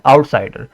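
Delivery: आउटसाइडर said evenly; easy आउटसाइडर with no force on साइ; level, unforced आउटसाइडर; unstressed, relaxed. Shown as a demonstration. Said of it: "So this is unstressed syllable".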